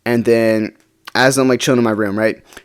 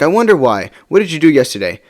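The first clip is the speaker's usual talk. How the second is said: higher-pitched, mildly accusing imitation; retold pointed reply; 4 semitones higher than usual. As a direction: imitate someone pointedly throwing it back. Retold pointed reply from upset girlfriend.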